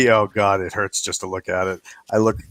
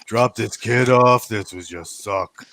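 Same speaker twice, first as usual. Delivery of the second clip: lightly voiced lazy Hogus; lazy slob voice. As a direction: sound too tired to get out of bed. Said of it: "Hogus sounds like".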